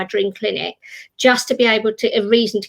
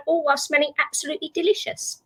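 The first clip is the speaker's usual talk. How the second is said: smelling absolutely delicious with a long rise; alluring sales line; 5 semitones higher, 4 dB quieter, faster than usual. Real, not acted. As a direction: tempt the listener. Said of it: "I love it the way you say that".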